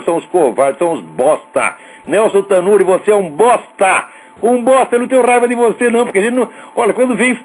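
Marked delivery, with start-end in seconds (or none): 2.1-6.2 angry insult. Real, not acted. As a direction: tell the owner off to his face. Insulting the newspaper owner directly.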